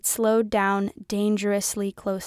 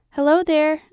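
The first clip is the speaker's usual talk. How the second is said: bright, high, louder hello forced over tears; cheerful greeting; 6 semitones higher, 7 dB louder than usual. A narrator's reading. Girl greets the bus driver, falsely cheerful. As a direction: put on a cheery front for the driver. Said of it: "I said cheerfully".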